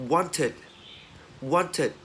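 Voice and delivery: "wanted" ending in a short "tid" syllable. Shown as a demonstration. Teacher giving examples after T, "wanted" as "want-it". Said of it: "khi mà đọc là it ấy".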